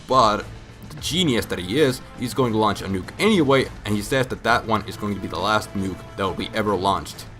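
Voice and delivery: usual speaking voice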